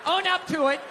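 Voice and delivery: hammed-up rant at the pizza thief; mock angry accusation. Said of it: "I can't be like".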